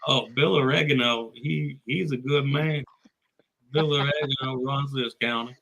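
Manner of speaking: mock Texan twang; Texan accent. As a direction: vouch for him like a county local in Texas. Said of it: "we just both do Texan".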